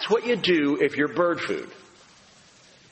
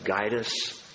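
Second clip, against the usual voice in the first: closing prayer; 3 semitones lower than usual. Real, not acted.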